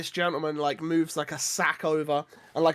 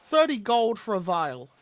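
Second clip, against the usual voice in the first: put-on leering wheezy old man; 3 semitones higher than usual. GM holds Gunther's voice.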